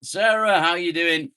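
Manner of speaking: high bright greeting; high cheerful hello to a viewer; excited greeting. Real, not acted.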